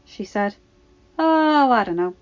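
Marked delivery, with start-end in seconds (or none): 1.2-2.1 put-on young woman voice. Ahsoka's reply voiced by reader.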